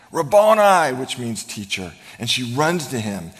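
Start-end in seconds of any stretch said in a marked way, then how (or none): 0.1-0.9 "Rabboni" cried out high and loud; "Rabboni" burst out in joyful recognition. Acted. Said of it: "cried out in Aramaic".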